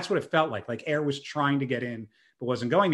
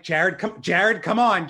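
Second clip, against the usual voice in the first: retold worried pleading; 3 semitones higher, 4 dB louder, slower than usual. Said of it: "you can hear it in his voice".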